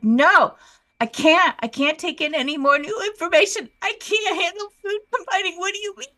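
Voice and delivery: flipped out. Retold or imitated. Retelling her reaction to food combining rules, flipped out. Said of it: "I literally flipped out".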